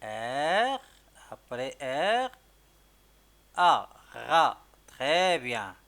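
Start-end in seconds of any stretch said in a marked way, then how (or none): 0.0-4.6 R, A said one by one, A loud and stretched; spelling out letters. Shown as a demonstration. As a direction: spell it letter by letter, then say Rat. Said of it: "on va écrire rat". (تهجئة الحروف حرفاً حرفاً)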